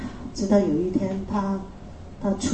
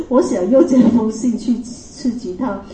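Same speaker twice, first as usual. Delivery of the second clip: laughing; 2 semitones higher than usual. Real, not acted.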